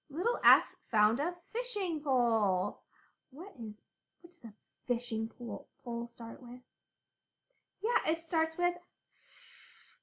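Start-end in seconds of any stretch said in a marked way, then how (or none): 3.3-6.6 1 whisper. Shown as a demonstration.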